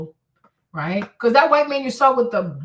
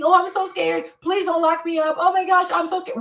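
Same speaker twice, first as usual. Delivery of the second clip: hammed-up frightened pleading, pitched higher; mock scared; 7 semitones higher than usual. Mocking a disgraced rich man begging not to be jailed, fake scared whine.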